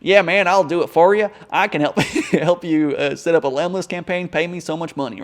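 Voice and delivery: mock pushy salesman in a Southern accent, laughing partway. Salesman pitching a Lemlist setup to a client, in a mock Southern accent. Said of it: "Let's do a Southern accent".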